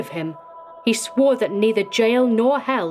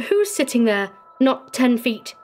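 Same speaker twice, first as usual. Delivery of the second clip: raised, frightened echo of the words; alarmed questioning; 5 semitones higher than usual. Acted. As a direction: question it in dread. Terrified friend echoes the warden's words.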